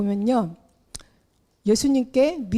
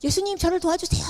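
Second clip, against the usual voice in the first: mock shout; 7 semitones higher, faster than usual. Blind beggar crying out to Jesus, mock high plea. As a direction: call out to Jesus in a raised, urgent pitch. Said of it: "막 소리를 지르면서".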